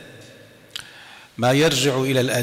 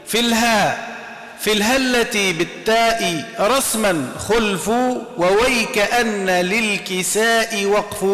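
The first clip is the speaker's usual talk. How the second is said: measured chanting of the verses; poem recitation; 3 semitones higher than usual. Acted. Teacher chants the Zamzamiyya lines for students, measured recitation. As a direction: recite the rhyming verses in a steady cadence.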